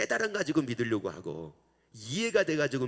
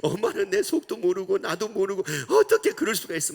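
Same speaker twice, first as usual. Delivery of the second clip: high, loud tearful complaint; crying child; 7 semitones higher, 9 dB louder than usual. Retold or imitated. Mother mimicking her crying child's loud, high complaint. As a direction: whine it like a child in tears. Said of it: "우는 거예요".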